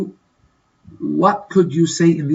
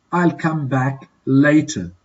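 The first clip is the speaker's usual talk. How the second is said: slow model. Shown as a demonstration. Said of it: "Complete these dialogues in a suitable way".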